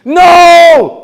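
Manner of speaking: high, loud cry of No; panicked shout. Retold or imitated. Seeing his friend reach for the radio, a panicked shout. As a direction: blurt it out in sheer panic.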